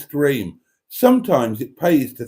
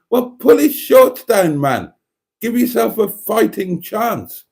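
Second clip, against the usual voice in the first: much higher, louder exasperated yell; shouting at screen; 10 semitones higher, 4 dB louder than usual. Retold or imitated. Viewer yelling boxing advice at the screen, shouting. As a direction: urge the losing boxer on from the sofa. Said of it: "I was shouting at the screen".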